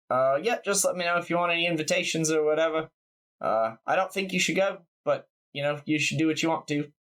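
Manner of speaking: put-on laid-back New Zealand accent. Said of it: "so it just became a New Zealand accent".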